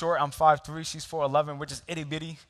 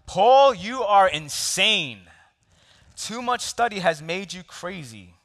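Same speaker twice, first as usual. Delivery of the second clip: narrated shout; 5 semitones higher, 7 dB louder, slower than usual. A narrator's reading.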